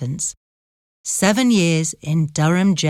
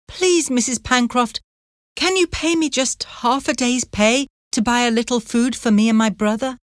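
put-on pleading girl; 6 semitones higher than usual. A narrator's reading. Anne begs for pay.

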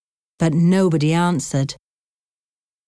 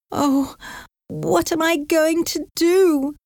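cried out; 11 semitones higher than usual. Acted. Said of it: "she cried".

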